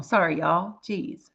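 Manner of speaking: real choked-up pauses, voice dropping away; getting emotional. Real, not acted. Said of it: "I'm about to get emotional".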